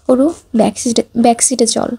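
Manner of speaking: usual speaking voice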